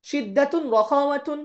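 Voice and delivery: each term drawn out slowly; slow, careful Arabic term recital; slow recitation. Shown as a demonstration. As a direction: recite it slowly for the class to repeat. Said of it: "জোড়ায় জোড়ায় পড়বো".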